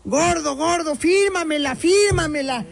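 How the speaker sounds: a light imitation of a brazen fan; flirty fan. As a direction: mimic a woman begging for an autograph. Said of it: "y le dice".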